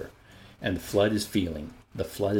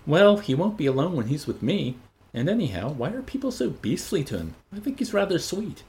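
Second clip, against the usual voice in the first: defiant; 7 semitones higher than usual. Acted. Lenina defends Bernard.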